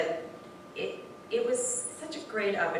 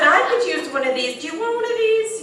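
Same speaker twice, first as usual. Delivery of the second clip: very high, sing-song offer; eager offer; 11 semitones higher, 10 dB louder than usual. Retold or imitated. Offering hugs to stranded drivers, very high. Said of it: "and I said".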